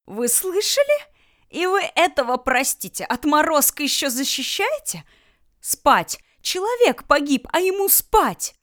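высоко и громко, срываясь в визг; возмущённо напади на всех разом; возмущённая истерика. Acted. Люля возмущённо кричит на Германа. (Люля кричит в негодовании, визгливо)

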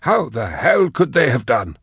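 high, slow, aghast Magos; high strange voice, shaken with horror; horrified. A narrator's reading. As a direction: recoil at the news in disbelief.

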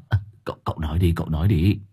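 quick, eager urging. Acted. Hải urging his master to tell the trick, quick and eager. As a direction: hurry him to say it, hopeful. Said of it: "Hải Nghẹo mong chờ".

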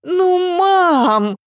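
high drawn-out whimper; drawn-out sob. A narrator's reading. Daughter sobbing to her mother, drawn out. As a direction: sob it out long. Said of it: "протяжно всхлипнула Ася".

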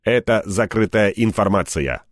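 mock reference-desk announcement; imitating Иби's tone. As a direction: lightly mimic an AI reciting official data. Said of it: "изобразил я её жетон".

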